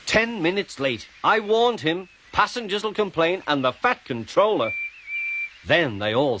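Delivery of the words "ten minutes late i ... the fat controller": high-pitched, impatient fretting; seething impatience. A narrator's reading. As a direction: fume at being kept waiting. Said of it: "Thomas seethed impatiently".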